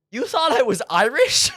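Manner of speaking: loud, high incredulous question breaking into laughter. Real, not acted. Streamer to a viewer who guessed Irish, incredulous. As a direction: blurt it out in amused disbelief.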